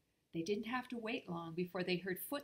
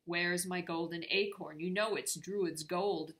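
demanding; 6 dB louder than usual. Acted. Nora demanding her acorn.

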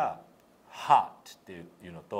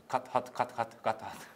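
fast drill; 3 semitones higher, faster than usual. Shown as a demonstration. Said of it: "早く言ったらどうなります".

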